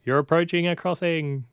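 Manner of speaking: playful sat-nav announcement; silly clown. Retold or imitated. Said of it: "So it'll be like".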